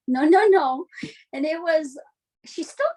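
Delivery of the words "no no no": mom correcting. Retold or imitated. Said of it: "And she would say".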